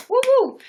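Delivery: high, loud double woo; quick "woo-woo" cheer; celebratory whoop. Real, not acted. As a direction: whoop in thanks to a viewer. Cheering a viewer's thanks.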